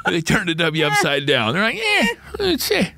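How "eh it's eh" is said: unimpressed. Retold or imitated. Unimpressed women mocked.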